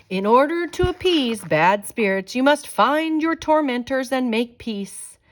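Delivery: with authority. Acted. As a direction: proclaim it like a spirit giving orders. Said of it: "called out with authority".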